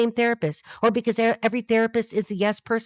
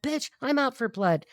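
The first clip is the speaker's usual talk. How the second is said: slow, drawn-out mock threat, pitched up; put-on talk; 4 semitones higher, slower than usual. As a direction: stretch it out in a put-on, higher voice. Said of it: "I don't know why I'm talking like this".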